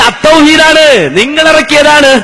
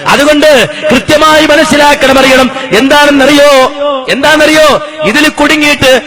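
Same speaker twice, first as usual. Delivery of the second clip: full-force preaching; 3 semitones higher than usual. Acted. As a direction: proclaim it to a crowd, stretching the last words. (ഉച്ചത്തിൽ നീട്ടിയുള്ള മതപ്രഭാഷണ ശൈലി)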